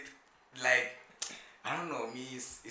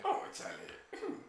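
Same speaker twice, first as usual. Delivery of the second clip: mock exasperation; 4 dB quieter, much slower than usual. Real, not acted.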